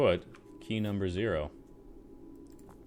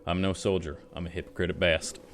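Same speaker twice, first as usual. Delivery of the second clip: put-on drunk soldier voice; 4 dB louder, faster than usual. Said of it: "rummy drunk soldier voice".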